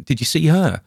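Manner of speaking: high, loud, urgent asking; wild question. Acted. Spalner turning to Morgan, wild and urgent. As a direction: demand an answer, frantic. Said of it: "He turned wildly to Morgan".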